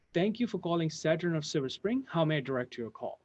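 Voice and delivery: receptionist greeting. Retold or imitated. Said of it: "That's what, how she said it".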